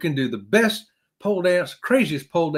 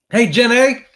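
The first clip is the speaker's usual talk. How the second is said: high, loud call of a movie character; loud Forrest Gump-style hail; 7 semitones higher, 9 dB louder, slower than usual. Acted. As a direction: holler the greeting like a simple Southern film hero. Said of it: "say it like Forrest Gump".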